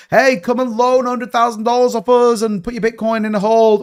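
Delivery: a hint of a huckster's come-on; mock sales pitch. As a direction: imitate an exchange touting its offer. Voicing exchanges' sales pitch.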